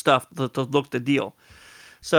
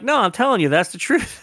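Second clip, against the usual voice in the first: much higher insistence; high protest; 7 semitones higher than usual. Retold or imitated. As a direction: pitch it up, protesting. Protesting innocence.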